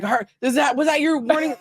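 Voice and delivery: put-on ex-boyfriend fretting over how she opened a can; mock panicked boyfriend. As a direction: play the jumpy ex checking for a warning sign. Imitating the ex-boyfriend's panicked question.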